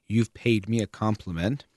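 "paid" leaned on and lifted; stress on PAID. Shown as a demonstration. Thinking one owes a compliment back, stressing "paid". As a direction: put the emphasis on the word "paid". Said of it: "emphasis on that word paid".

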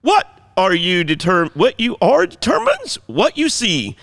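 high, over-enunciated mock English accent; bad English accent. Shown as a demonstration. Pastor reading his sermon notes, bad English accent. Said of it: "I'll just do my English".

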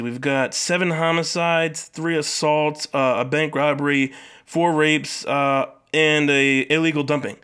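slow, deliberate list read-out; officer reading docket. Acted. Officer briefing his chief on the day's cases, slow mock-official report. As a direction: list each case slowly, as if reporting to the chief.

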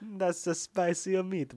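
slow, drawn-out hammy Cage line; Nick Cage overacting. Friend echoes the line, slow and hammed-up. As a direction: stretch every word like a ham actor. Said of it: "a Nick Cage overacting voice".

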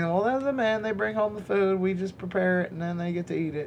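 put-on mild southern accent, defending the men. West Virginia woman defending men eating first, mild southern accent. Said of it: "the devil's advocate has a southern accent".

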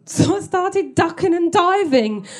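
laughing through the words, slow. Real, not acted. Comedian cracking up as she tells the audience. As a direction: giggle as you tell it.

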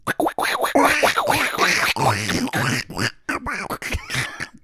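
squeaky duck quacking noise; squeaky rubber duck. Pretend. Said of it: "I was definitely working on that".

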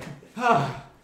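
out-of-breath sigh. Pretend. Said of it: "making it sound like I was out of breath".

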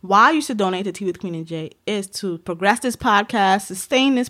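smooth, slow hustler pitch; lightly voiced pimp selling hard. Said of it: "That's my pimp voice".

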